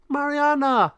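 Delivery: high, loud cry of a name; alarmed call. Acted. Penelo seeing Mariana in claws, alarmed. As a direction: shout out in panic. Penelo calls to captured friend.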